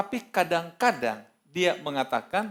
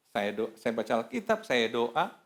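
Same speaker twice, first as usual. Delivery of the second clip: ordinary talk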